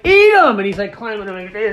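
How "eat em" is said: high, very loud mock yell; insistent kid's shout. Grandson shoving grapes at grandpa, high shouted demand.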